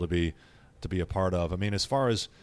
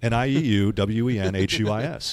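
spelled out; 5 dB louder than usual. Shown as a demonstration. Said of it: "first name that we ever spelled".

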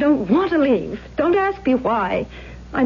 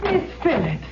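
high, tearful cries of a name; distressed calling, fading off; crying out; 6 semitones higher, 7 dB quieter than usual. Acted. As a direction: call out in frightened tears.

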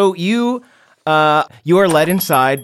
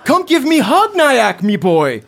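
arms wide, beg for a hug; caveman dad, affectionate; 10 semitones higher, 4 dB louder than usual. Acted. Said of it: "Ron looks up and says".

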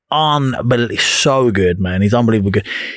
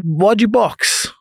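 slow coach question; 8 semitones higher, much slower than usual. Retold or imitated. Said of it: "he said".

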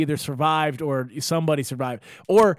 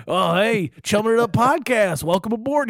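raised, louder mock welcome; lightly voiced meth head; 6 semitones higher, 4 dB louder than usual. An unhinged stranger welcomes the podcast, lightly mocked. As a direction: greet the podcast like an unhinged host. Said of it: "meth head being like".

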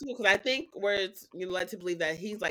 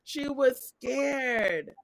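laughing; 6 dB louder, much slower than usual. Real, not acted. Laughing retelling of the scene.

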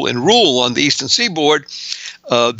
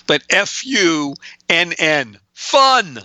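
"F U N N" slow letter by letter, "fun" jumps way up; spelled out; 2 semitones higher, slower than usual. Shown as a demonstration. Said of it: "frequently is not a four-letter F word".

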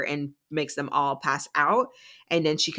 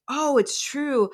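much higher, slow put-on dad voice; 10 semitones higher, slower than usual. Jerry's dad comes in confirming, slow put-on voice. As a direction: play the dad, drawn out.

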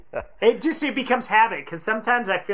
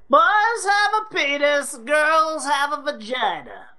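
mock sex-ed teacher; 5 semitones higher, slower than usual. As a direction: spell it out like a prim teacher. Mock sex-ed lesson joke.

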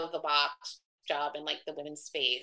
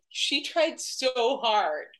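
high, slow, hammed-up exclamation; laughing nearly to tears; 6 semitones higher, 6 dB louder, much slower than usual. Guy in the corner teasing the room, near tears laughing. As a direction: imitate someone helpless with amusement, louder and drawn out. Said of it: "laughing so hard. He was, like, almost crying".

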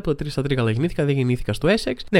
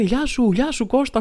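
high-pitched greeting without real shouting; mock hail to someone in the distance; calling from afar; 9 semitones higher, slower than usual. Aliens greeting someone from far away, mock calling out. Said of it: "φωνάζουν από μακριά".

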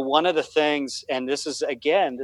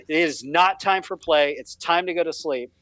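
stern; 4 semitones higher than usual. Retold or imitated. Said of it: "I'm getting very stern with her".

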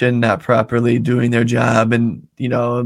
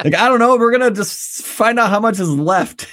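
higher, laughing through words; horrified amusement; 8 semitones higher than usual. Real, not acted. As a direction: giggle while mocking it. Laughing at absurd statement.

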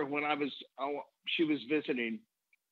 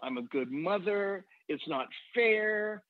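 a hint of a grieving widow, slowing toward the end; grandmother's lament; 3 semitones higher, slower than usual. Grandmother telling her grandchild how unfair it was. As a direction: gently mimic her self-pity, drawn out. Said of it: "And she said".

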